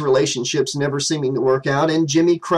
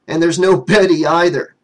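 matter-of-fact; 3 semitones higher, 5 dB louder than usual. Acted. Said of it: "Ted said matter-of-factly".

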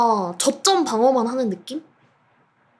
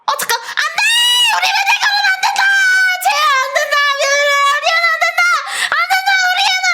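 high frantic yell; panicked shouting; 4 dB louder, faster than usual. Real, not acted. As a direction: shriek to protect your player. Star player tackled, panics. (다급한 비명)

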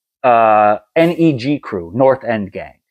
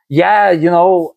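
lightly voiced friend, higher and drawn out; slow, raised imitation of a friend's twang; Side's twangy voice; 5 semitones higher, slower than usual. Telling what a friend said on the phone, twangy imitation. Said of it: "You gotta do the accent".

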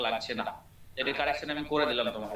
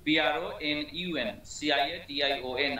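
spelling out; slower than usual. Shown as a demonstration. Teacher spells the word out.

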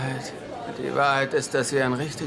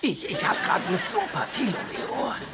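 flustered stammer; 10 semitones higher than usual. Acted. Flustered excuse after accusation.

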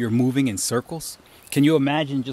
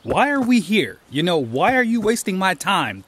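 higher-pitched, accusing questions; nagging inner voice; 5 semitones higher than usual. Acted. Voice in your mind demanding a purpose, nagging. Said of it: "There are voices back there".

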